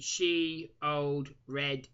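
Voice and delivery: put-on "she old red" as separate, drawn-out words; name split for joke. Shown as a demonstration. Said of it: "give you a little joke here".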